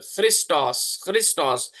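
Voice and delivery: क्रिस्टोस with a throaty kh start; pron Christos. Shown as a demonstration. Teacher showing how खी sounds, क्रिस्टोस with kh. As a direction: say क्रिस्टोस with kh at the front. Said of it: "खी की आवाज निकालता है".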